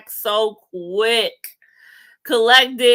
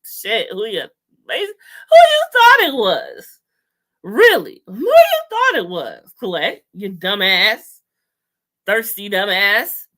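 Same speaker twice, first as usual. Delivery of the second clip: mocking Jax. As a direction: jeer at her in a mock whiny voice. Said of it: "Jax was like".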